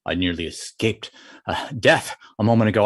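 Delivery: low, broken phrases with puffing; out of breath. Acted. Tiger to Fox after fleeing Frog, acted out of breath. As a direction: act winded after a narrow escape. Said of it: "Why are you out of breath?".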